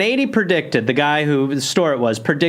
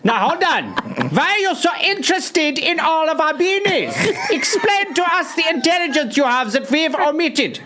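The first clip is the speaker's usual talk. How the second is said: high, wary German shopkeeper; suspicious German clerk; 10 semitones higher than usual. Acted. German shop clerk grilling an American caller, high and suspicious. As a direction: squeak out suspicion like a shopkeeper smelling a rat.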